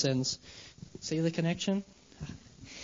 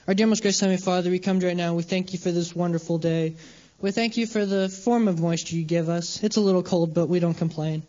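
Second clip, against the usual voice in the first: prayer. Acted. Leads a prayer.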